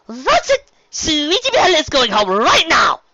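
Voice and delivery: alarmed Rarity. Acted. Rarity panicking that her sister must go home. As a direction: declare it in sudden alarm.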